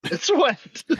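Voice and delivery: squeaky high mock delivery. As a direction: toss the excuse back in a silly high voice. Mocking the car excuse.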